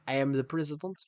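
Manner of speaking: mock Russian accent, measured delivery. Shown as a demonstration. Streamer showing off an accent, Russian accent. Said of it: "do a Russian accent".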